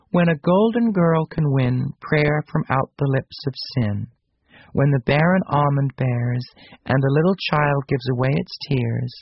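slow, solemn verse reading; reciting a prophecy. Acted. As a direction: intone the old rhyme slowly.

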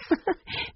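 a breathy little laugh, high and soft; soft airy laugh. A narrator's reading. Older sister amused by her brother, soft airy laugh. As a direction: laugh lightly under the breath. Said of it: "Jessie laughed".

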